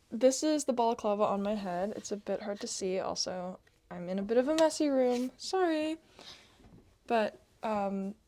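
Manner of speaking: speaking through a face mask; muffled through fabric. Real, not acted. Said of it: "I'm a little muffled because I'm speaking through it".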